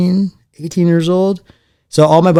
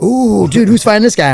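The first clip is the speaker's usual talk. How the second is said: mock awe; 8 semitones higher than usual. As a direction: imitate an awed onlooker. Onlookers awed by flashy opponent.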